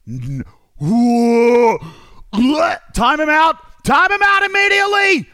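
shrieking high and loud in horror; disgusted shriek. Real, not acted. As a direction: recoil with a loud, high scream. Horrified reaction to spider image.

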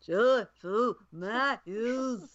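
slow, drawn-out mumbled singer voice; impression of a famous folk singer. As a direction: drag the words out lazily like a folk singer. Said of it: "I'll do a famous folk singer".

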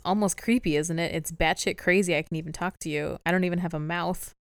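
lightly put-on British accent; a hint of British English. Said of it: "In a British accent".

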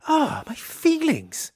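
high, slow wounded wail; hurt wail. Acted. King mock wounded.

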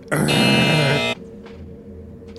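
long imitated buzzer noise; vocal game show buzzer; loud buzzer. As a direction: buzz from the throat for a wrong answer. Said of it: "you hear another loud".

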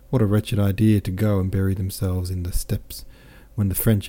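lightly voiced, lively boastful officer; a hint of a jovial soldier bragging; cheerful French captain. Captain boasts of his wounds to Pierre, lightly voiced jovial.

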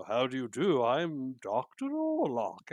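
slow, lightly voiced horror-movie doctor; a hint of a creepy old film villain introducing himself; Boris Karloff voice. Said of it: "my Boris Karloff impression".

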